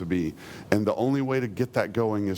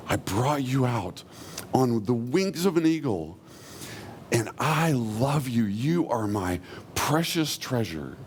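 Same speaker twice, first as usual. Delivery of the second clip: slow, drawn-out, heartfelt affection; unhurried loving reassurance; tender divine declaration. Acted. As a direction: speak slowly as God cherishing the people. Voices God's loving first words.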